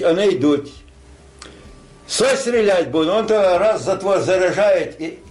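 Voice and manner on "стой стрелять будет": raised, higher call of a guard; sentry shout. Retold or imitated. Sentry warning before shooting.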